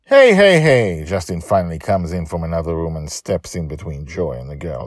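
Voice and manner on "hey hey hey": loud high call to stop. Acted. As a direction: break up the fight. Justin breaks up taunts.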